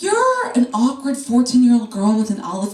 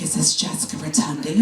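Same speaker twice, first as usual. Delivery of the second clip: lightly voiced assistant; 8 semitones lower, 4 dB quieter than usual. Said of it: "She's like".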